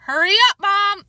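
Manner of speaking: loud, high hurry-up call; urgent call. Acted. Boy urges mother to come quickly, loud call. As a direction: yell for Mom to hurry. Peter calling Mom urgently.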